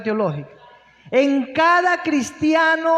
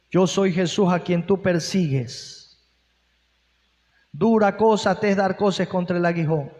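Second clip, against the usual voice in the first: lower, solemn voice of Jesus calling out; 6 semitones lower than usual. Acted. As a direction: call him by name from above, lower and grave. Preacher voices Jesus answering Saul.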